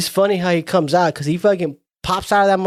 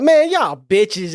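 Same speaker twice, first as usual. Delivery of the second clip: dismissive brush-off; 5 semitones higher, 3 dB louder, much slower than usual. Retold or imitated. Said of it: "and he's like".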